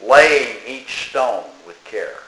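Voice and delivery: slow, measured verse with long pauses; poem recitation. Acted. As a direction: recite line by line, drawing out the line endings.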